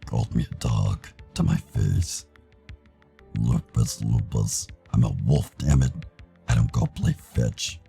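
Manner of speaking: mildly angry wolf, rising in force; offended, emphatic grumbling; indignant complaint. Acted. Tyson indignant in quarrel.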